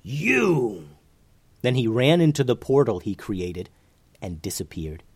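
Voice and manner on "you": higher, drawn-out cry of alarm; mildly alarmed villain's yell; shaken yell. A narrator's reading. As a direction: cry out, shaken, at a feared enemy. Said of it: "became visibly shaken and he yelled".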